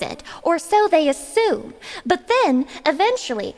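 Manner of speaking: lightly voiced earnest keynote speaker, measured and formal; TED talk presenter. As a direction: present it like a mock-serious lecture to an audience. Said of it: "You sound like you're about to do a ted Talk".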